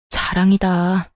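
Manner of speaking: slow, dry sarcasm; slow sarcastic sneer at her husband; sarcastic jab. Acted. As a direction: drag it out scornfully. Wife mocks husband's boast.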